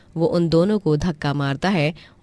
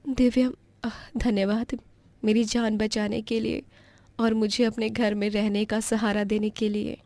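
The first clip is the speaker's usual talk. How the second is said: put-on higher, soft thankful girl voice; grateful girl; 6 semitones higher, 4 dB quieter than usual. Rescued niece softly thanking Divyam for saving her. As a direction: thank him gently.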